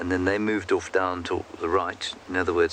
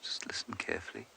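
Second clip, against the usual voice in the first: hushed safari guide's whisper; real hushed whisper; 16 dB quieter than usual. Real, not acted. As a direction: whisper softly, listening out for an animal. Listening for an approaching elephant.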